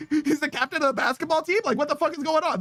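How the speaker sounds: high incredulous ranting; high-pitched rant. Real, not acted. Streamer ranting to the boys about the boyfriend, high incredulous.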